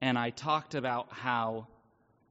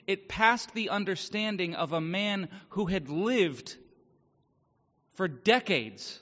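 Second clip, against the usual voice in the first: raised, emphatic testimony with deliberate pauses; earnest preaching; 5 semitones higher, 4 dB louder than usual. Real, not acted. Speaker testifies to a congregation about finding peace, earnest preaching. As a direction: preach it with growing emphasis, higher than conversational talk.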